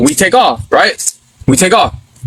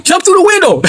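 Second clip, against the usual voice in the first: pitched-up mock yell at a running friend; retold yell; 10 semitones higher than usual. Teen in the car yelling to his friend Satan, mock shout. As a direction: call him through the window, half-shouted. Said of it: "we were yelling".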